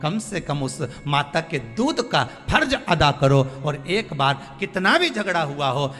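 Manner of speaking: high, forceful preacher's appeal; impassioned preaching. Real, not acted. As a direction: press the plea home with rising fervour.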